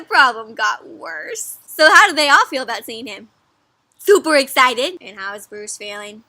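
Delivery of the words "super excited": acted delight for young listeners; super excited. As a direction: bubble over on each word. Answers how the friends feel.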